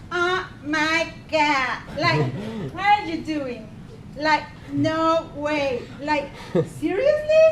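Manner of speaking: put-on drawn-out valley girl whine; mock the reality-show sisters, lightly; Kardashian impression. Speaker mocking the Kardashians to the audience, valley girl drawl. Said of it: "Every episode was the same thing".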